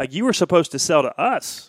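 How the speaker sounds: loud, exasperated protest; frustrated complaint. Retold or imitated. Pastor upset on the phone to the selling pastor, loud and frustrated. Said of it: "so frustrated, so upset".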